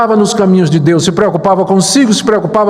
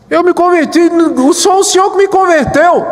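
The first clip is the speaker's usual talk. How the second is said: put-on drunk; 9 semitones higher than usual. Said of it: "passageiro completamente bêbado".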